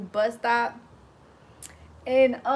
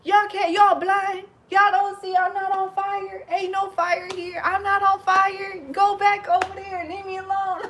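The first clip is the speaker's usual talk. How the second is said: imitating an angry drunk; 8 semitones higher, 3 dB louder than usual. Retelling how the drunk man yelled at the firefighters, high and angry. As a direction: mimic the drunk's outrage, dragged out. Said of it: "He was so pissed".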